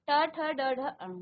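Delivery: ट, ठ, ड, ढ, अण said clearly with tongue curled back; teacher modelling the retroflex row; retroflex series demo. Shown as a demonstration. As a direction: sound out ट ठ ड ढ अण slowly for students. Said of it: "जहां पर आपकी जीभ स्पर्श कर रही है".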